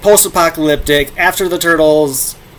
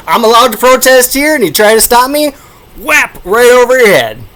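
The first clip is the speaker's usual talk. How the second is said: put-on high, loud, outraged old lady; indignant Aunt May; 9 semitones higher, 6 dB louder than usual. Aunt May yelling at the police officer, outraged. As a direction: play her furious at the police officer. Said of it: "She starts beating him over the head".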